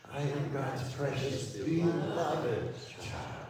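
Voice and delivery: "beloved" stretched out on a high pitch; stress on BELOVED. Shown as a demonstration. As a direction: climb to "beloved" and linger on it. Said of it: "as we emphasize each word".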